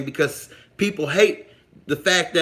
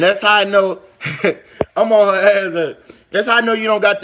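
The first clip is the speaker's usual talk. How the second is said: laughing louder through the words; laughing tease; 5 semitones higher, 6 dB louder than usual. Real, not acted. Calling out a viewer in chat, laughing and louder. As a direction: tease them while cracking up.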